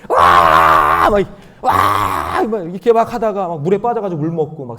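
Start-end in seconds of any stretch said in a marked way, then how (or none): 0.1-1.1 loud, long mock "waah" yell; drawn-out shout of mock thrill; imitated crowd scream. Mimics screaming banana-boat riders. 1.6-2.4 loud, long mock "waah" yell; drawn-out shout of mock thrill; imitated crowd scream. Mimics screaming banana-boat riders.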